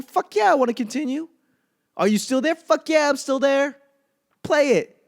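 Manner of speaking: high, loud, eager pleading with the TV; excited binge-watcher. Retold or imitated. Himself answering the streaming prompt.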